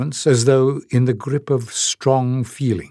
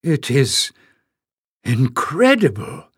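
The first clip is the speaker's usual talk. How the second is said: piper exclaiming; 2 semitones higher than usual. A narrator's reading. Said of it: "the piper exclaimed".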